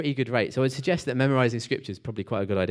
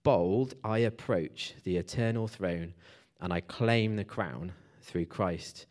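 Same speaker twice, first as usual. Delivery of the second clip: measured, slow-ending poetic reading; hymn verse recital. Acted. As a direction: recite the hymn line by line with weight.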